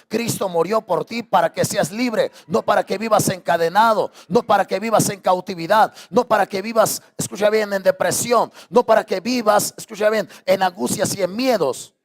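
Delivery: rising, pressing sermon climax; fiery preaching. Acted. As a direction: drive it home to the congregation. Preaching at full force.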